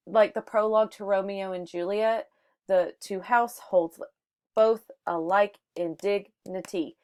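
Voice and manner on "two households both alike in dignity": "two households both alike in dignity" measured out in weak-strong beats; iambic pentameter demo. Shown as a demonstration. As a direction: break "dignity" into syllables, DIG-ni-TY, on the beat. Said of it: "what it sounds like in iambic pentameter".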